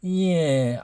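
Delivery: softly mimicked nonchalance; nonchalant imitation. YouTuber quoting trainer about the fight, nonchalant imitation. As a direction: play the trainer as unbothered. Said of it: "non-nonchalant".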